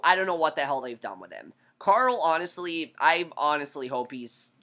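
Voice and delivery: ordinary talk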